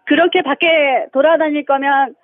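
mock telling-off, rising on the last word; attempted scolding. Caller rehearses scolding husband, halting mock anger. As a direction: practice scold, broken into chunks. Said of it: "해보세요".

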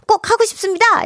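very cute high-pitched plea. Retold or imitated. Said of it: "유정이가 너무 귀엽게". (높고 귀엽게 흉내 내며)

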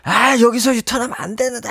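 높은 음으로 불법을 못 참는 사람 흉내; mock complaint, pitched well up; 참견하는 불평. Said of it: "크고 작은 불법 행위를 참지". (높은 목소리로 따지는 척)

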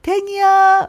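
long drawn-out high name call; slow, lilting pet call. Pretend. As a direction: stretch the name out as if calling the dog. Tries calling the pet's name.

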